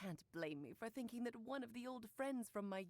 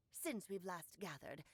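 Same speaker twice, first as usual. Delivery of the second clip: lightly voiced stern old witch; a hint of a disapproving old crone; old hag; 4 semitones lower than usual. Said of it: "Why are you talking just like the old hag?".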